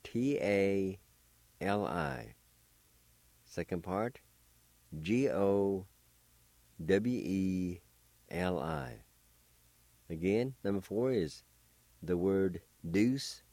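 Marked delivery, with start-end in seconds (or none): 0.0-2.3 letters named one at a time; spelled out letter by letter. Shown as a demonstration. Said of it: "First part is spelled like this". 5.0-9.0 letters named one at a time; spelled out letter by letter. Shown as a demonstration. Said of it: "spelled like this".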